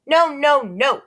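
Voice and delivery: put-on high, loud toddler's no; shouting toddler. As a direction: yell it like a stubborn little kid. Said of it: "Fudge shouted".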